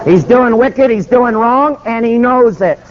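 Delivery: high, hammering preacher's charge; indignant denunciation. Retold or imitated. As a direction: denounce him phrase by phrase, pitched high. Preacher denounces governor on camera.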